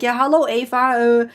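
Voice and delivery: imitated Dutch-accented English; light Dutch accent, halting phone talk. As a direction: mimic a Dutchman hesitantly addressing his chatbot. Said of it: "doesn't help his Dutch accent either".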